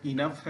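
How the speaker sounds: इनफ finishing on an F. Shown as a demonstration. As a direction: say the GH ending of इनफ as F. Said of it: "उच्चारण F के तरीके से".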